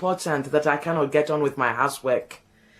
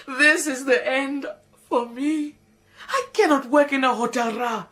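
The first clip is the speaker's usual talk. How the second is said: melodramatic despair. Acted. Despairing lament.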